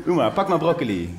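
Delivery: a hint of a cooing mum, laughing through it; mother in the supermarket. Mother coaxing her child to pick broccoli, lightly voiced. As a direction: coax the kid like a show. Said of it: "Zij deed dit".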